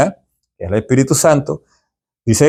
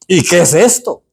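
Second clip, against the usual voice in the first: "¿Y qué es esto?" with a lightly raised, questioning lift on esto; mildly baffled people seeing manna; puzzled Israelites; 4 semitones higher than usual. Retold or imitated. Teacher voicing the Israelites seeing manna, mildly puzzled. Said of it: "dijeron ellos".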